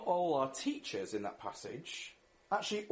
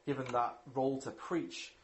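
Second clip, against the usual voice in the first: lower, measured praying voice; prayer; 4 semitones lower than usual. Real, not acted. Preacher thanking Father God for Jesus, prayerful. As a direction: pray aloud to God, subdued and steady.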